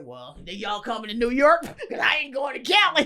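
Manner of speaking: incredulous, laughing pushback; laughing refusal. Retold or imitated. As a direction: burst out laughing as you refuse.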